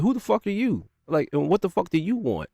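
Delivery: high-pitched retold snap at a stranger; retold angry snap. Snapping at an unseen man at night.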